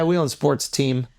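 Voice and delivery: slow offhand boast; casual brag. Shown as a demonstration. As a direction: drop it slowly like it's nothing. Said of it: "you could say".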